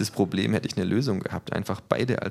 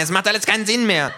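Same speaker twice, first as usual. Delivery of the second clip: high, loud and fast wail; little thug screams in despair; despairing shout; 7 dB louder, faster than usual. A narrator's reading. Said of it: "schreit der Kleine".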